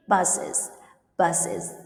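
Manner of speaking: "buses" with the ES said as IZ; IZ ending. Shown as a demonstration. Teacher shows students the differences, IZ ending on "buses". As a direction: say "buses" in two syllables, ending IZ. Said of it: "Pronounce is".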